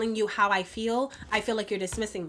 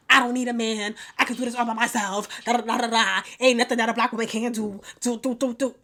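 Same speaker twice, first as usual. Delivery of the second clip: lightly mocking a self-sufficient woman's rant; mock independent woman; 3 dB louder than usual. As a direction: parody an "I need nobody" speech, running into babble. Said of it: "same categories of the women".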